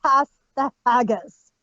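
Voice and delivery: mock Scottish accent, lightly done; a hint of a broad Scottish brogue. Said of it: "speak with a thick Scottish accent".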